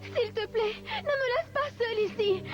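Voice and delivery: crying, begging not to be left; tearful pleading. Acted. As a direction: plead through tears. Trapped girl pleads.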